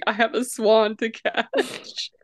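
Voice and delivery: slow, with a touch of crying; hammed-up teary resolve; mock tearful. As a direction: choke it out heroically. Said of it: "he goes".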